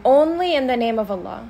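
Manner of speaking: ONLY stressed, slow and falling; slow teaching emphasis on "Only". Shown as a demonstration. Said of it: "सिर्फ अल्लाह को जो नाम है". ("Only" पर ज़ोर, धीमे)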